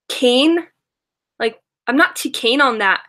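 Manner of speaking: put-on light Australian accent on "keen", vowel stretched toward "kayn"; a playful Australian "not too keen on that"; imitating Australian accent. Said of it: "And she says".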